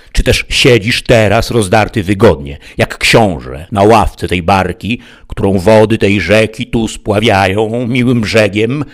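a touch of angry scolding knight. Acted. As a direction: scold the cowardly squire with contempt. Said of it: "rzekł gniewnym głosem".

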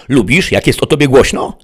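high, loud question; called taunt. A narrator's reading. Sheriff questions the bandit from outside, calling loudly. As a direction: call the question out to someone indoors.

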